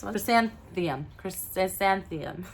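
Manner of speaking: chrysanthemum fumbled slowly, syllables slurred or dropped; stumbled pronunciation. Real, not acted. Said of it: "I can't say".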